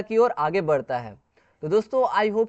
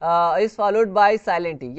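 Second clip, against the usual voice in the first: slow rule reading; much slower than usual. Shown as a demonstration. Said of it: "या तो ये silent ई के द्वारा फॉलो होता है".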